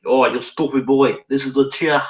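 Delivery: lightly put-on Chinese accent; thick Chinese accent. Manager pointing out the chair, mild mock Chinese accent. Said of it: "he replied in a thick Chinese accent".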